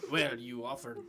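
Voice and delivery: put-on accented merchant puzzling over a customer; a foreign shopkeeper lecturing in broken English; lightly accented shopkeeper, baffled; shopkeeper's strong accent. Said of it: "My accent is very strong".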